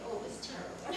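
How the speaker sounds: breathy laugh through the words; laughing confession. Retold or imitated. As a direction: give in while giggling. Diane's reversal, laughing.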